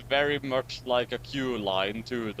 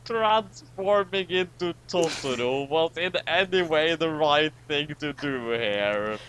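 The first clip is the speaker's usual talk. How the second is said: disdainful villain; 5 semitones higher, slower than usual. Acted. Voicing the Dragon Master.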